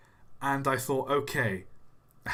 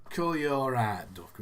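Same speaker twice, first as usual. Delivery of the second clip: put-on casual Yorkshire-style accent; northern English accent. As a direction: imitate a northerner's greeting. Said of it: "them in the north".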